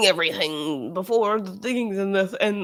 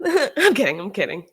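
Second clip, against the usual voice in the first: mock white lady; 2 semitones higher, 4 dB louder than usual. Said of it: "white women say that a lot".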